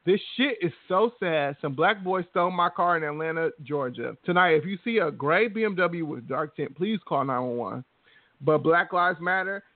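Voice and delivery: hammed-up dramatic read of a friend's post; mock reading her post. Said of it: "She went on to write".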